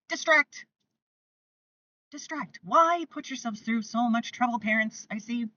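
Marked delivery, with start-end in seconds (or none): 0.1-0.7 emphatic. Shown as a demonstration. Coach telling parents the key word, loud and emphatic. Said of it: "Distraction is one of the best". 2.1-2.6 Distract said again much softer, almost to herself; soft repeat. Shown as a demonstration. Coach echoing her advice to parents, soft. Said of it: "Distraction is one of the best".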